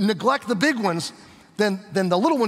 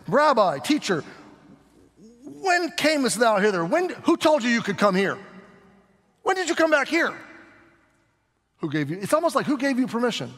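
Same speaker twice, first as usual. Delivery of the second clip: mock indignant questioning, pitched higher; snarky bristly crowd; 4 semitones higher than usual. Preacher voicing the crowd's snarky questions to Jesus, mock indignant. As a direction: sneer it like a crowd challenging a rabbi. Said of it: "their snarky, bristly attitudes".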